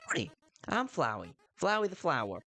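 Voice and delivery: lightly voiced perky flower character; Flowey. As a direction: chipper little flower introducing itself. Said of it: "I'm giving them a southern accent".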